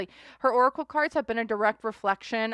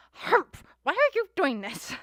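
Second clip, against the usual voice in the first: mock indignant Amber; 8 semitones higher, 5 dB louder than usual. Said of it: "she's like".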